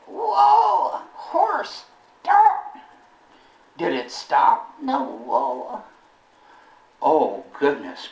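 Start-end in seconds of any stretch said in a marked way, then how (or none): 0.1-2.8 high, loud yell at a runaway horse; panicked yell. Retold or imitated. Jasper yelling at a runaway horse, high and loud. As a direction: holler whoa at the bolting horse. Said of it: "and I yelled".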